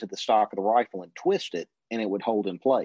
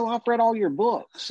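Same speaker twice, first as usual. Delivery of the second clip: put-on young eager self; 14 semitones higher, 3 dB louder than usual. Teen self answering, retold.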